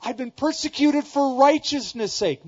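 preacher mocking an obnoxious believer's self-pity; self-pitying zealot. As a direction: whine like a smug fake martyr. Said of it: "that person might walk away going".

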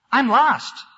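high, loud teary little mouse; sobbing mouse. A narrator's reading. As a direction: cry it out as a lost baby mouse. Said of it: "sobbed the little fellow".

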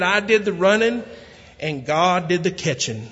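lightly voiced country fellow, delighted. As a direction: deliver the punchline with glee. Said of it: "He said".

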